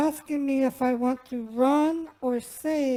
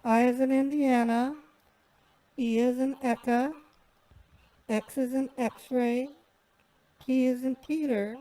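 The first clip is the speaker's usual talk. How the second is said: dictating. Real, not acted. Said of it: "can you read it back to me once".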